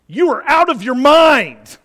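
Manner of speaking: loud scornful jeer; mock outburst. Governor Festus mocking Paul, loud scornful jeer.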